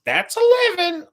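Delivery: high, light weary sigh of a line; resigned clerk voice. Retold or imitated. Clerk brushing off the abuse, resigned and high. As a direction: shrug it off as routine. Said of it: "as if he was like".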